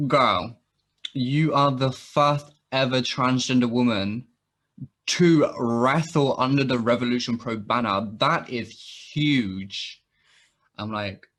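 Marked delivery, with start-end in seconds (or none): 0.1-10.0 excited announcement. Retold or imitated. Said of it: "And they were like".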